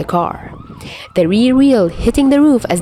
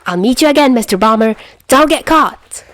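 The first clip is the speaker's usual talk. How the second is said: high, louder, playful parting shout; gleeful taunting call; 5 semitones higher, 3 dB louder than usual. Acted. Albatross taunting while fleeing the police, gleeful high call. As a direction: toss it back over your shoulder mid-escape. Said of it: "He laughs".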